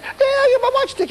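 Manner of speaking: giddy high laughing reply. Retold or imitated. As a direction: answer laughing with delight. Healed man laughing with joy.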